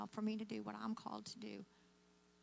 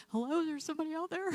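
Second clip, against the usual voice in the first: raised, higher call into the night; 6 semitones higher, 6 dB louder, faster than usual. Retold or imitated. Blind woman calling out to a sobbing stranger, raised voice. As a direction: call out to someone unseen outside.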